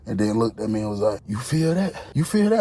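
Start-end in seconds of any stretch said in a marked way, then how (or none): 1.3-2.6 mock creepy question. High guy asking creepily.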